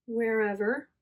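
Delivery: talking through hiccups; a hiccup catching the word. Real, not acted. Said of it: "Excuse me, I'm hiccuping".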